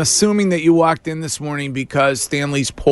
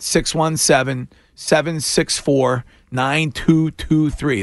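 slow number read; 4 semitones higher, slower than usual. Shown as a demonstration. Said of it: "That's six one seven".

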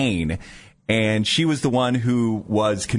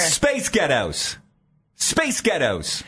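slow, higher go at sounding Scottish; attempted Scottish accent; 4 semitones higher, much slower than usual. Shown as a demonstration. Puzzling over the meme, attempted Scottish accent. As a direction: try it slowly as a Scottish take on a band's name. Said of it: "saying a band's name in a".

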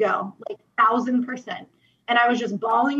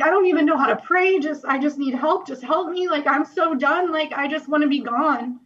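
desperate plea; 5 semitones higher than usual. Retold or imitated. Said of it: "I was like".

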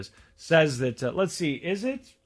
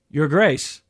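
humble servant; 4 semitones lower than usual. Shown as a demonstration. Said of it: "This is an example".

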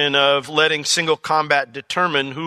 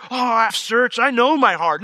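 high, self-satisfied claim; smug self-assurance; 8 semitones higher, 5 dB louder than usual. Retold or imitated. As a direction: play the overconfident believer. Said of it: "You say".

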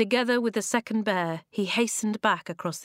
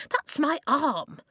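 high, slow, affronted little man; peeved weedy voice; 8 semitones higher, slower than usual. A narrator's reading. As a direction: protest it slowly, pitched high. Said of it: "the voice muttered".

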